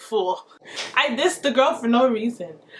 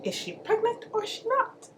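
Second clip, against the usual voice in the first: mock echo; 11 semitones higher, 7 dB quieter than usual. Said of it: "That's what I said".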